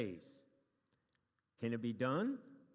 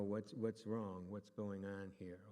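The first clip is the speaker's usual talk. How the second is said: gentle concerned asking; 5 semitones lower, 5 dB quieter, slower than usual. Acted. Models asking someone what is wrong.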